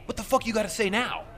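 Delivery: imitating a sneering yell; jeering challenge from the other driver; mock heckle. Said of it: "he heckles me".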